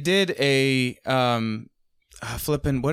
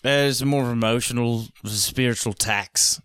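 put-on old drunk English butler; 3 semitones lower than usual. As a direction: drag out the words like a tipsy old butler. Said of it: "old drunk English butler".

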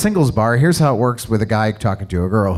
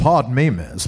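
put-on courtly old southern gentleman; Colonel Sanders voice. Trying a southern voice for friends, courtly southern gentleman. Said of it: "this is more Colonel Sanders now".

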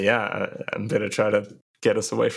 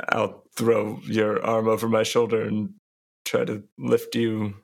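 overdone cosplay voice. Acted. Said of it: "Why are you saying that in character voice?".

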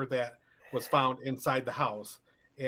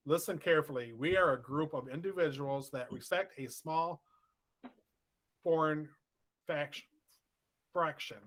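reading the note, slightly raised pitch; shaky ransom note reading; 3 semitones higher than usual. Retold or imitated. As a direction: read it out like a threatening letter. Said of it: "the ransom note said".

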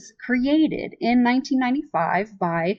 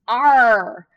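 pirate arr; 3 semitones higher, 6 dB louder than usual. Retold or imitated. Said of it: "his outburst was".

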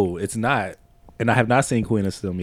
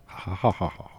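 villain laugh; 3 semitones lower, 7 dB quieter than usual. Pretend. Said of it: "Go try one".

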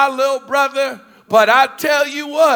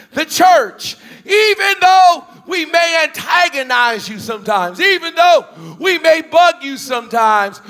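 preaching build; 2 semitones higher than usual. Acted. Pastor rallying the congregation, preaching with growing force. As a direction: lift it up like the pulpit climax.

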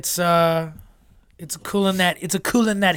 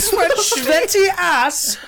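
put-on German accent; 12 semitones higher, 3 dB louder, much slower than usual. Joining the German accent bit.

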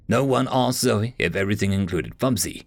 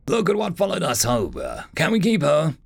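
in a rush; 5 semitones higher than usual. Acted. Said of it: "Alan said in a rush".

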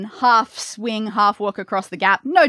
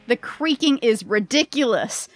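game master narration. Acted.

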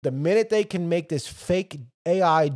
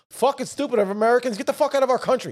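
mock screaming; 8 semitones higher, 3 dB louder, faster than usual. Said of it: "fucking screaming at them".

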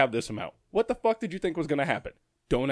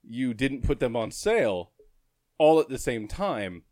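annoyed tone. Retold or imitated. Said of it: "Only I said it with that tone".

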